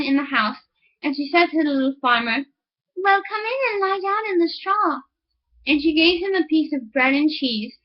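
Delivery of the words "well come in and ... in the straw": lightly raised, higher woman's voice; a hint of a sly farm wife; soft, higher wifely welcome; miller's wife voice.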